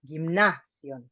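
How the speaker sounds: gymnasion with the force on "na"; stress accent. Shown as a demonstration. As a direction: lean on the middle "na" of "gymnasion". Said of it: "with more force".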